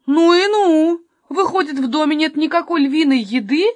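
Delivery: loud, high-pitched astonishment; astonished. Acted. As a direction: blurt it out in shock. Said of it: "изумился Каспер". (громко и изумлённо)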